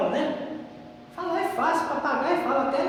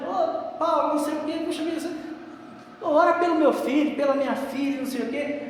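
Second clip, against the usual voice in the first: higher, mock-whiny begging brother; whining plea; 5 semitones higher than usual. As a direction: imitate a man whimpering for prayers. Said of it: "e já veio choramingando". (choramingando em tom de imitação)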